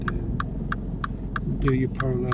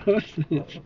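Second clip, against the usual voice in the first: nervous laugh; 4 semitones higher than usual. Real, not acted. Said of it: "That was a very nervous laugh".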